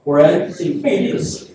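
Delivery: measured, slow Bible reading; reading scripture aloud in church, slow and formal. Acted. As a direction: read the passage like a solemn lesson. Reads a Bible passage aloud.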